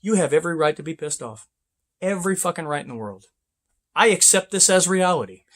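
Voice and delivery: quick, soft placating patter; calm the angry trucker down; mock soothing. Advising drivers how to soothe a pissed-off trucker: soft quick mock calm. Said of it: "just sit there and go".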